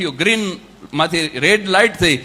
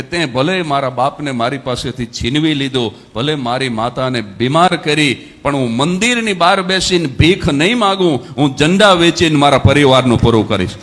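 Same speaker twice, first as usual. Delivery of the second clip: tearful prayer, rising; 4 semitones lower, 4 dB louder than usual. Retold or imitated. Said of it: "રડતા રડતા એને કીધું". (રડતાં રડતાં પ્રાર્થના, વધતા અવાજે)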